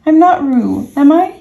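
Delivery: loud, high-pitched pleading; crying out. Acted. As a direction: appeal urgently in a small creature's high voice. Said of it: "cried Piglet".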